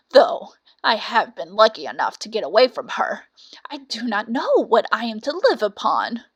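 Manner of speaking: lightly voiced old cat, woeful and pleading; a touch of lament as the old cat; understated weary cat voice; sorrowful old cat. Cat laments her fate.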